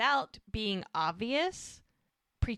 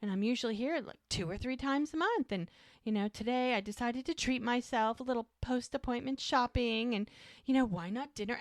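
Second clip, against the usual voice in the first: higher-pitched imitation of a prattler; chattering on; 4 semitones higher than usual. Muriel tells the couple about her day, prattling on. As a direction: ramble on breezily as a self-absorbed chatterer. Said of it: "she's just going on and on".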